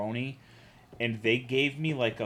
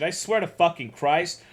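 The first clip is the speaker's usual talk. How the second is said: ordinary delivery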